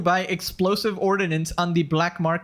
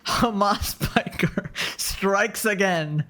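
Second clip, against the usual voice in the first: slow, read through a laugh; much slower than usual. Real, not acted. Streamer reading a tweet, slowly through laughter. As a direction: read it out while cracking up.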